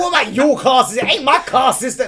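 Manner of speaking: high loud laughing tease. Real, not acted. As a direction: laugh through the teasing question. Laughing mock challenge.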